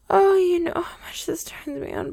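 a breathy, whimpering whisper; aroused whisper. Acted. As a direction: gasp it out with a catch in the throat. Aroused, half-sobbing whisper.

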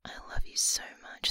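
ordinary delivery

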